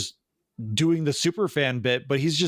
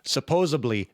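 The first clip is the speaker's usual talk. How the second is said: lightly put-on Wisconsin "Supposedly"; mock Wisconsin, "supposably" for "Supposedly"; Wisconsin accent. Shown as a demonstration. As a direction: say "Supposedly" with a B, Midwestern Wisconsin style. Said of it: "you had to do something like".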